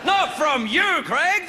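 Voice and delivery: whiny outraged audience voice; mock audience protest. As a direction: play the heckling crowd. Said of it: "I know what you're thinking".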